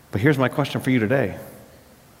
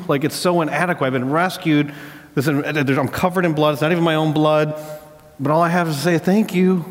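imitated tearful gratitude, mildly choked up; through tears; 4 semitones higher than usual. Rescued captain tells the medic his thanks, imitated tearfully. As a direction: play a rescued man overwhelmed with thanks, lightly tearful. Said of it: "he says, like, through tears".

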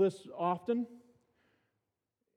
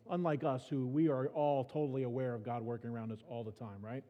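sarcastic; 4 semitones lower, 3 dB quieter than usual. Shown as a demonstration.

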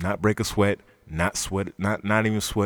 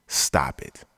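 breathy, whispered stop it; dismissive; 8 semitones lower than usual. Real, not acted. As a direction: wave them off in a hushed whisper. Dismissing fans.

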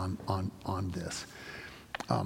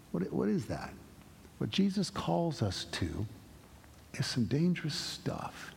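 gentle challenge; 3 semitones higher, 4 dB quieter than usual. Real, not acted. Pastor gently challenging listeners to act, soft sincere voice. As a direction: ask it quietly and sincerely.

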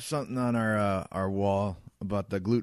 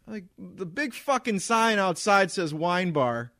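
real irritation, pushed louder; angry rant; 7 semitones higher, 4 dB louder than usual. Real, not acted. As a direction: vent about the rude guest. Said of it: "Getting so angry just thinking about it".

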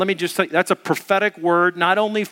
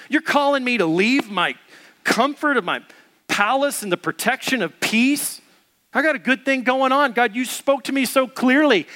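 frustrated Jonah; 4 semitones higher than usual. Retold or imitated. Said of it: "Is what Jonah is saying".

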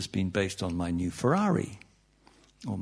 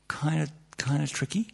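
whispered aside; 3 semitones higher, 6 dB quieter than usual. Real, not acted.

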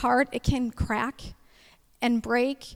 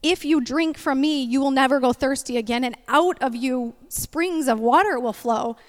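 preaching quote; 2 semitones higher, 5 dB louder than usual. Acted. He said quoting Jesus.

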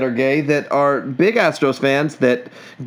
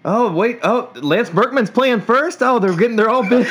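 mock realization; 8 semitones higher than usual. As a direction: act like you just noticed something. Mock realization about bigot team.

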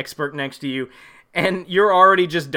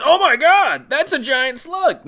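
high, loud gasp of fake amazement; mock amazed husband; 9 semitones higher, 5 dB louder, slower than usual. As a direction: play him dumbly astonished, high and loud. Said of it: "and he goes".

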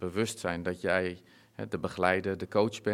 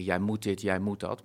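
mock bossy orders, a bit louder; louder, mock-insistent ordering; bossy commands; 5 dB louder than usual. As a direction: imitate someone laying down the law. Acted bossy orders not to give.

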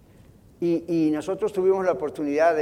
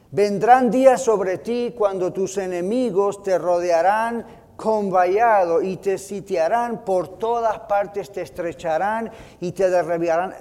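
solemn prophecy; 4 dB louder than usual. Retold or imitated. Jesus' prophecy preached aloud.

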